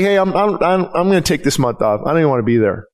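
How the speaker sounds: low, sulky voice dropping away; a hint of a fed-up church volunteer; discouraged worship team member. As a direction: mope like a volunteer who wants out. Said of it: "it's like".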